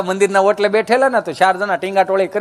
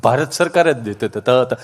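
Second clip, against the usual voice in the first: stammering friend; 8 semitones lower than usual. Retold or imitated. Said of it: "જીભ જલાઈ સોંટે અટકે".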